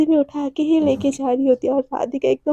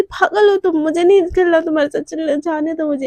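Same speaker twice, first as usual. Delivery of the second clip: quick, tearful sulk that fades out; whiny half-crying protest. Acted. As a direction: whimper it like a sulking girlfriend. Devika sulks, wants to leave. (रुआँसी होकर रूठते हुए)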